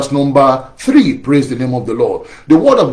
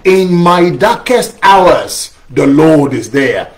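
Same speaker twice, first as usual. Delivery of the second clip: slow, weighty response line; slow call-and-response; much slower than usual. Shown as a demonstration. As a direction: lead the congregation slowly through the line. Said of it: "Can somebody say that with me?".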